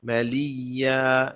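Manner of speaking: ملیا with a firmly held double y; doubled ya. Shown as a demonstration. Teacher models tashdid for learners, doubled y in ملیا. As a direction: lean on the ی of ملیا, then open to long aa. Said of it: "یہاں پہ تشدید کریں".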